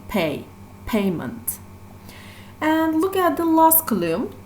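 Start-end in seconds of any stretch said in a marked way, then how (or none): 0.1-1.6 "pay" alone, then "payment" stressed on "pay"; stress on first syllable. Shown as a demonstration. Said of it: "the stress is on the first syllable".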